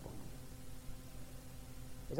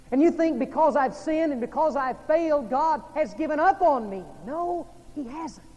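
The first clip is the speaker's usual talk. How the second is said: loud, high, emphatic sermon delivery; impassioned preaching; 7 semitones higher, 7 dB louder than usual. Real, not acted. Preacher tells guilt-ridden listeners God has not given up, forceful preaching.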